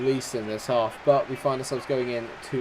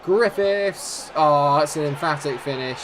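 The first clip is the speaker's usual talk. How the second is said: much higher, much louder scream of the scorer's name; goal shout; 5 semitones higher, 8 dB louder, slower than usual. Real, not acted. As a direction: roar the name as it hits the net.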